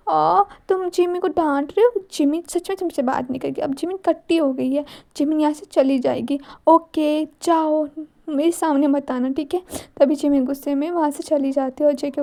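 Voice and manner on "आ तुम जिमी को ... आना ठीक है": put-on sulky childlike girl. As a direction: sulk like a child in a huff. Jimin sulking in third person.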